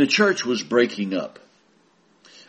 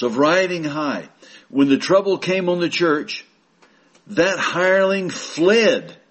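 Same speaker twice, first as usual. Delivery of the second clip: fervent preaching; 6 semitones higher than usual. Acted. Preacher condemning the evangelist who fled, fervent. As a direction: build the indictment of the hireling.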